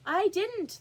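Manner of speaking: high, quick March Hare squeak; hasty denial. A narrator's reading. March Hare hurriedly interrupts to deny it. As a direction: blurt the denial out fast. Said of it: "interrupted in a great hurry".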